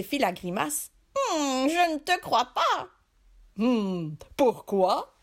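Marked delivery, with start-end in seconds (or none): 1.2-2.9 higher, doubtful fisherman voice. Acted. 3.6-5.1 surprised genie. Acted. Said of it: "s'étonna le génie".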